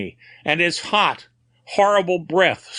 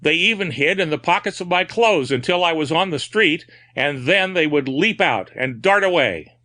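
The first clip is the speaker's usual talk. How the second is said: higher, feverish raving about the pieces; breaking out again; 6 semitones higher than usual. A narrator's reading. Madman confessing to the doctor, feverish outburst. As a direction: let the madness spill out again. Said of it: "Then he broke out again".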